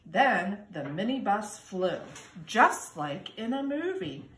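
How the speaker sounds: put-on lively storybook reading for kindergarten kids; reading to children. A narrator's reading. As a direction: read it like storytime, sing-song and bright. Reads picture book to children.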